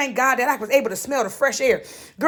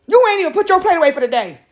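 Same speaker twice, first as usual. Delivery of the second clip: quicker, pushier retake; faster and a bit louder; 3 semitones higher, faster than usual. Shown as a demonstration. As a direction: hurry it out, a little louder. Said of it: "repeats line faster, louder".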